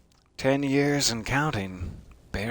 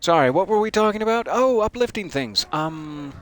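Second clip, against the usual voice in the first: mock chirpy; 5 semitones higher than usual. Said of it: "jumping back to chirpy".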